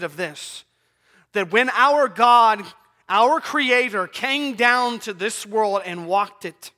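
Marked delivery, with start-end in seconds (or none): 1.3-6.7 emphatic pulpit delivery, drawn-out phrases; slow down and proclaim it; forceful preaching. Acted. Preaches with raised voice.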